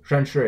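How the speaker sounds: 认识 with both syllables falling; double fourth tone. Shown as a demonstration. Teacher demonstrating the word for meet, double fourth tone. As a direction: say 认识 as two falling tones. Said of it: "is also a double fourth tone".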